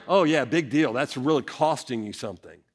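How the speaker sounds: sarcastic. Acted. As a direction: feign being impressed, then let it drop. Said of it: "if it's sarcasm, he's saying".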